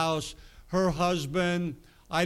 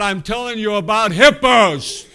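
put-on louder, insistent repeat of a frustrated old man; retold loud outburst; 4 semitones higher, 9 dB louder than usual. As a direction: push the words out, exasperated he isn't getting it. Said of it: "and he got loud".

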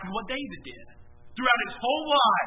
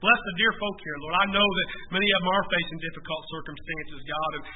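lowered, earnest pastoral prayer; 4 semitones lower, 4 dB louder than usual. Real, not acted. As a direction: lead the congregation in prayer, addressing the Lord. Leads the congregation in closing prayer.

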